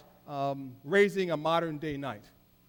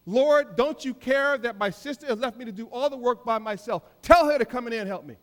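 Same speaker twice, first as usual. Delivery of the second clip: whiny complaint; 5 semitones higher, 4 dB louder than usual. Acted. Martha complains to Jesus.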